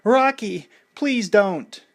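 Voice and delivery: high, urgent plea; pleading. A narrator's reading. Adrian holding Rocky back from the fight, pleading. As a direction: beg him to stop. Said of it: "Adrian pleaded".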